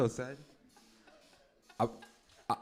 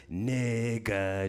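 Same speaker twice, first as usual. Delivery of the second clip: Imitation of a rapper. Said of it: "It'd be like".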